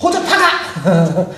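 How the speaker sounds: high, mock-angry parent's outburst; exasperated parent scolding. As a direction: scold a child who keeps making trouble. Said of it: "어른들이 그러잖아요. 자식들이 속을 썩일 때에".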